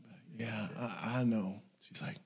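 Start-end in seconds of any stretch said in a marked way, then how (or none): 0.5-1.6 put-on sleepy child. Sleepy child answers mother softly.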